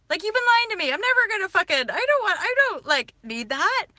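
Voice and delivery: high, loud, disgusted rant; fed-up telling off. Retold or imitated. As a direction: tell them off, grossed out. Telling off shady people.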